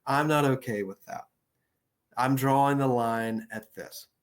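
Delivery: calm, clear, no hedging; plainly assertive refusal. Shown as a demonstration. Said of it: "See how it rolls?".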